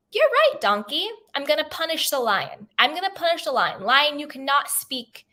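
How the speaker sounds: lifted voice for a storybook verdict; lightly voiced God. God rules between donkey and lion, lightly acted pronouncement.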